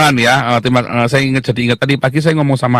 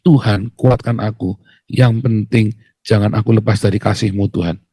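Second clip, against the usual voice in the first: humble surrendered prayer; 5 semitones lower than usual. Shown as a demonstration. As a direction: pray it gently, trusting. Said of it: "Coba dia doanya diganti".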